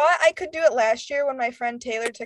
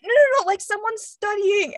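high-pitched mock reassurance; retold hasty correction; 8 semitones higher than usual. Friend to screaming group about a student, retold correction. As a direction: imitate a friend calling off the scare.

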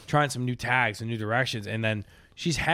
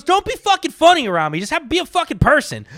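high, loud, fast mock yell; gruff older comic; 8 dB louder than usual. Big Tim yelling at a newbie comic, high and loud. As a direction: bark at the new kid for bitting. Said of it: "He goes".

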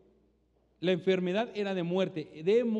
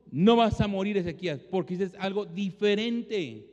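1 proclaiming. Pretend. Preacher proclaims God's verdict.

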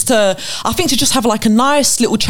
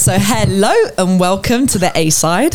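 polished presenter greeting; customer service voice. Real, not acted. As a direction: put on a bright, formal host voice. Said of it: "Why should you introduce it like that?".

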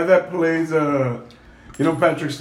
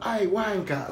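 put-on British hood accent; 5 semitones higher, 6 dB quieter than usual. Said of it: "British from the hood".

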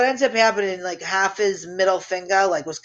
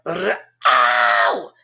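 sudden hammed-up yelp, lower voice; mock yelp of pain; 7 semitones lower, 3 dB louder than usual. Ex yelping as the snowblower catches his finger, mock yelp. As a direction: yelp like your finger just got caught.

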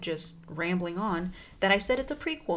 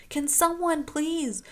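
urgent Klaus; 6 semitones higher than usual. Retold or imitated. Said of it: "Klaus is like".

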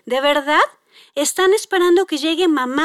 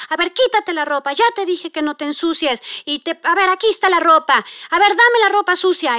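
mildly angry mom; 3 semitones higher than usual. Retold or imitated. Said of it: "la mamá enojada".

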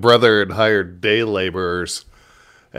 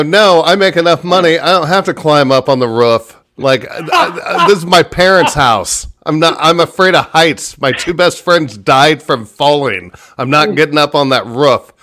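retold indignant reply; 5 semitones higher, 3 dB louder than usual.

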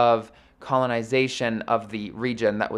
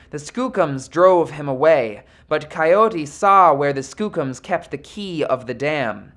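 steady storyteller telling a legend; story narration. A narrator's reading. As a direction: tell it like an old fable. Reads the myth aloud.

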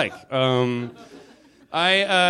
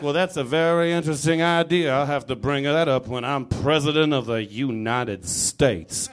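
Kevin Spacey. Retold or imitated. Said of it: "He'll be like".

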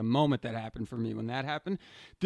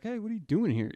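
street guy calling out; 9 semitones higher, faster than usual. Retold or imitated. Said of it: "He's like".

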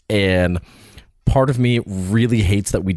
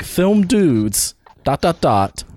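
excited name pitch; 3 semitones higher, slower than usual. Retold or imitated. Host spelling out the full suggested name, playfully excited. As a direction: draw out the title with showy relish. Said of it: "the excitement that he put into saying".

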